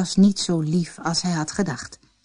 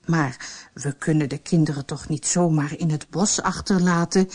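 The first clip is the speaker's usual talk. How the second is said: desperate; 3 semitones lower than usual. Acted. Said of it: "zei de houthakker wanhopig".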